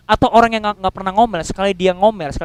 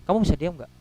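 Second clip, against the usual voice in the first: quiet stern warning; 2 semitones lower, 6 dB quieter, faster than usual. Retold or imitated. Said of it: "kalau sudah mengatakan".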